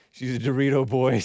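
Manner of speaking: a deliberately bad Scottish accent; jokey Scottish accent on a chat name. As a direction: ham up a poor Scottish accent. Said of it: "bad Scottish accent".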